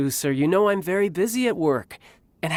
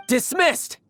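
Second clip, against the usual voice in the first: commanding dismissal; 9 semitones higher than usual. Acted.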